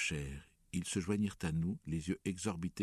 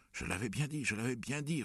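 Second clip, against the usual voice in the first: a restrained roar of reproach, pitched up; 7 semitones higher than usual. A narrator's reading. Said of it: "rugit-il". (rugissement contenu, voix haut perchée)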